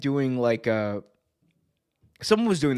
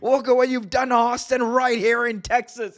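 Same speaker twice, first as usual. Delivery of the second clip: much higher, outraged announcer yell; Jim Ross impression; 10 semitones higher than usual. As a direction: channel JR losing it on air. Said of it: "He's like".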